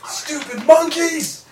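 high, slow spiteful jeer; sneering insult. Acted. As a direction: spit it out with contempt. Insulting protesters in character.

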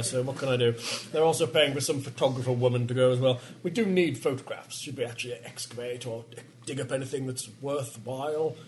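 usual speaking voice

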